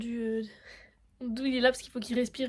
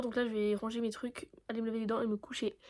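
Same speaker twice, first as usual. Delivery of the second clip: whispered; 2 semitones lower, 9 dB quieter than usual. Real, not acted. Late evening, going to bed.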